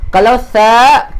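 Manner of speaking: "tha" stretched slowly; slow emphasis. Shown as a demonstration. Teacher isolating the letter tha for students. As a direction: draw out "tha" to show the sound. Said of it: "keluarkan sedikit hujung lidah".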